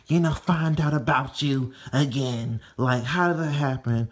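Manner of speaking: lightly voiced friend, fast in the middle; a hint of a scheming friend giving orders; voicing Mona. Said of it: "She's like".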